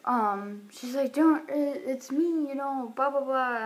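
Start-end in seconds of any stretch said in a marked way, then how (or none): 1.1-3.6 higher-pitched, agitated imitation; mock freaking out. Drunk stranger insisting she knows her, imitated freak-out. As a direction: act out her worked-up insistence. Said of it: "freaking out".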